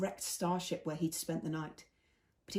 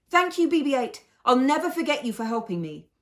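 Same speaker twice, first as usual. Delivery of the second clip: emotional thanks; 7 semitones higher, 9 dB louder than usual. A narrator's reading. Fez's grateful farewell while fleeing.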